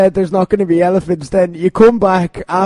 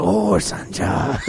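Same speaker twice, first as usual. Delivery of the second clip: slow, drawn-out put-on character voice; Littlefinger; 5 dB quieter, much slower than usual. Host who loves doing Littlefinger, slow hammed-up impression. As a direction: draw the name out slowly, in character. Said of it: "Every time Littlefinger was like".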